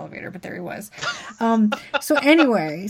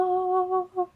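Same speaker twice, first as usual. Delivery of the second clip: surprised gasp; 10 semitones higher, 6 dB quieter than usual. Retold or imitated. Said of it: "it's like".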